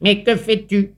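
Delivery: a touch of spiteful anger; cheated spider grumbling at the runaway ant. A narrator's reading. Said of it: "ronchonna l'araignée de dépit et de colère".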